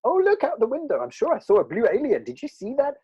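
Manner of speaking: high, loud mock distraction; a hammed-up diversion "look out the window"; changing the subject. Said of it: "Change the subject".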